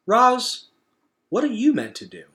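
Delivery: eager raccoon asking; curious critter. Acted. Raccoon asks Roz.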